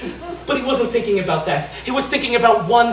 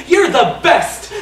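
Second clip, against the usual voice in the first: excited exclaim; 4 semitones higher, 4 dB louder, slower than usual. Acted. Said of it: "exclaimed little Tony".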